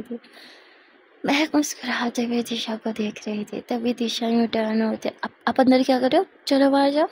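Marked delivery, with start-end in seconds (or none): 5.2-7.1 quick, flustered shooing; rushed, embarrassed protest. Acted. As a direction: hurry her out in embarrassment. Flustered Disha shoos her out.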